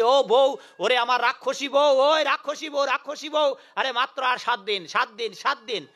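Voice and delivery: demon shouting. Retold or imitated. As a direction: yell for the demon wife, then let it drop. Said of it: "খুব চেঁচাচ্ছে".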